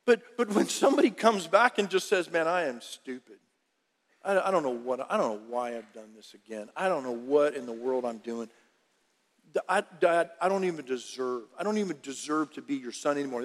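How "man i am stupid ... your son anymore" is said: low, soft, broken confession; quiet shame-filled confession; remorseful son. Acted. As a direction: plead as a ashamed son. Prodigal son confessing to father.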